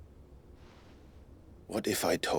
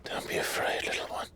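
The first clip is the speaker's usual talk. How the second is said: gentle whisper. Acted. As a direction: hush him gently, barely voiced. Soothing a frightened child.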